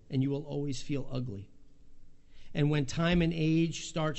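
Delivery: emphatic reading of a speech excerpt; reading a quote aloud. Real, not acted. Pastor reading a quote to the congregation, emphatic. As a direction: read it out with weight. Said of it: "I'll just read you".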